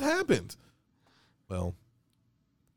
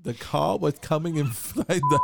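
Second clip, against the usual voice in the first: loud, slow, high mock storyteller; spooky storyteller; 6 semitones higher, 4 dB louder than usual. Starting a mock scary story, loud, slow and hammed. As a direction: intone it like a campy ghost story.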